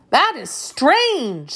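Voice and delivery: high, slow, drawn-out wonder; astonished. A narrator's reading. Dorothy hearing of the changing princess, astonished. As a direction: marvel in a high girlish voice. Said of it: "said Dorothy in astonishment".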